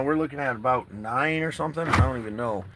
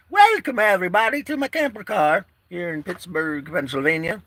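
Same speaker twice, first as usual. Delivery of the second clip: higher, louder showman welcome; hyped intro; 7 semitones higher, 4 dB louder than usual. Shown as a demonstration. Vlogger opening his camper-car show with a big welcome. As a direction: boom it out like a show host opening.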